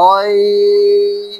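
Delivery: "অইন" sustained very long on a high steady pitch; long held Ain. Shown as a demonstration. Teacher answering "কি কি?" with a long high "অইন". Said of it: "উচ্চারণ খেয়াল করেন".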